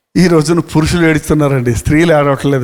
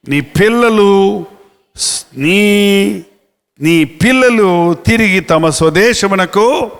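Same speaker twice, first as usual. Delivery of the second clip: slow, solemn reading of God's promise; slow scripture reading; much slower than usual. Acted. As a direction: draw out each phrase of the verse. Reads scripture slowly. (నెమ్మదిగా గంభీరంగా వాక్యపఠనం)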